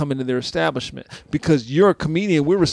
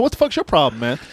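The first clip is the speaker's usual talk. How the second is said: retold confrontation; 4 semitones higher than usual. Retold confrontation with laughing comic.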